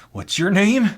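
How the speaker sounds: high-pitched, forceful repeat; odd coworker's insistent question. Acted. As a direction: press the question as the weird stock guy. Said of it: "introduced himself like this".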